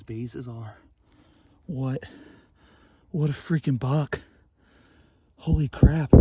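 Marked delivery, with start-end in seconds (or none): 1.7-6.1 excited. Real, not acted.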